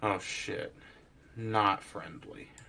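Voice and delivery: softly spoken, half-voiced, just short of whisper. A player lowers their voice so only part of the group hears, speaking a little quieter. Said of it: "I'm going to speak a little quieter now".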